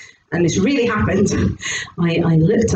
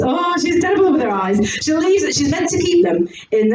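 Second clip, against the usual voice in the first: put-on husband voice, changed accent; 3 semitones higher than usual. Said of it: "I keep changing the accent now".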